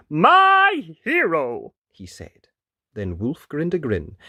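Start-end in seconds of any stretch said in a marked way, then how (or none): 0.1-1.7 high, loud, drawn-out adoration; prince crying out. A narrator's reading. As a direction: gush slowly as an adoring prince. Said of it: "the prince cried".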